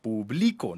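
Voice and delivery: "Publico" said pu-BLI-co, the weight on "bli"; stress on the middle syllable. Shown as a demonstration. Host contrasting accent marks for students, middle syllable stressed. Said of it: "no lleva tilde".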